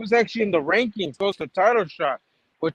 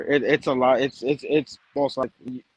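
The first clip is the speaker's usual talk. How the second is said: glitching audio; 5 semitones lower than usual. Real, not acted. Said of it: "you keep cutting out".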